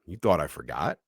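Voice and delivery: lightly voiced monster taunt; low creepy rising question; low menacing taunt. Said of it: "throws open the door".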